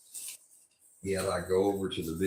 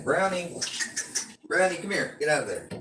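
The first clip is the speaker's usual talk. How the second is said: high, loud call to the dog; yelling at the dog; 9 semitones higher, 3 dB louder than usual. Real, not acted. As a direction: shout the dog's name to call it back. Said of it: "I'm sorry for yelling".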